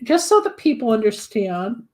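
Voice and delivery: talking through hiccups; hiccuping between words. Real, not acted. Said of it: "I got the hiccups from drinking".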